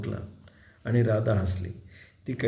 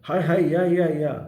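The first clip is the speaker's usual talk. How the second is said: excited shouts, higher and louder; crowd shouting; 4 semitones higher, 4 dB louder than usual. Acted. Villagers shout to each other on spotting the boy, excited calling. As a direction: call everyone over. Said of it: "एकदम ओरडा झाली".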